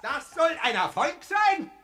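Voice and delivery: loud, scornful outburst with a laugh; mocking shout. Clinic director scoffing loudly at Doctor Affolter. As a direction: jeer at the doctor's claim.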